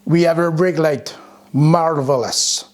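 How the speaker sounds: comically bad French accent; muddled French accent. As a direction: ham up a dubious French accent. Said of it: "Don't know what that accent was".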